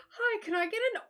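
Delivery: hammed-up Aussie politeness; imitated Australian accent. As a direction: order in an exaggerated Australian accent. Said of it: "impersonating Australian accents".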